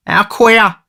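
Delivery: high, loud oafish musing; high-pitched pondering youth; reflective wonder. A narrator's reading. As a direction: marvel in a high, tipsy voice. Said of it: "said Noah reflectively".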